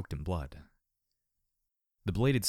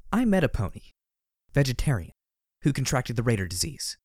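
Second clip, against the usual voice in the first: sharp; 3 semitones higher, 4 dB louder than usual. Acted. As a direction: cut in sharply. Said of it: "I said sharply".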